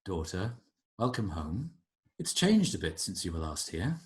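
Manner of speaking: soft, measured villainous dad; composed father. Acted. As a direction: greet a daughter with quiet control. Game master plays Juniper's father.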